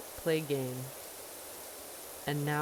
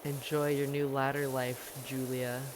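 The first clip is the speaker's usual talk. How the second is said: put-on mean girl; 5 semitones lower than usual. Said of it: "like a mean girl from high school".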